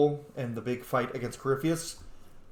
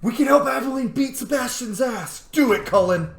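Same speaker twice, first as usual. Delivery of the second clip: gasp, then loud high cheer; root for Aveline like a fan; excited cheering; 11 semitones higher, 8 dB louder than usual. Real, not acted. Gamer cheering on his advisor, loud and thrilled. Cheering on the war table result.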